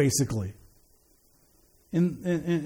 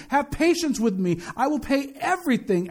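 mildly pleading, a little raised in pitch; imploring; 5 semitones higher than usual. Acted. Servant begs master for time to pay, imploring. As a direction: gently act out a servant's plea. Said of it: "imploring him".

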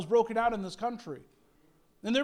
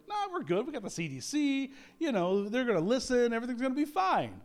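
mock breezy dismissal; 3 semitones higher than usual. Mocking complacent public.

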